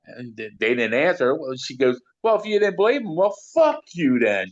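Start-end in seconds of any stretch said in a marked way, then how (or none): 2.2-4.5 much higher voice, mock telling them off; imitating a sharp retort. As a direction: imitate her snapping at the doubters, higher. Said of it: "just like that".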